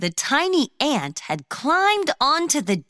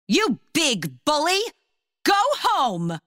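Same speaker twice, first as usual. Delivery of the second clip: high shooing cry; shooing the bully; 6 semitones higher than usual. A narrator's reading. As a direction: chase it off with a high yell. Fran chases deer with broom.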